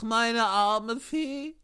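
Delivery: mournful lament. Acted. Pinocchio laments his fairy.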